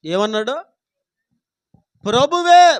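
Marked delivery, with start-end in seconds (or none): 1.8-2.8 ప్రభువే slow, loud and high, ending ఏ held; stress on ప్రభువే. Shown as a demonstration. Preacher contrasting the word for listeners, ప్రభువే slow and loud. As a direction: hammer the ఏ in ప్రభువే. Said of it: "ప్రభువు అనలా".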